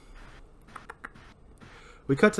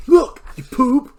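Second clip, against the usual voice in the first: slow, high furious yell; angry shout; 12 semitones higher, 7 dB louder than usual. Acted. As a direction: snarl the threat loudly. Barry slams Max against ice.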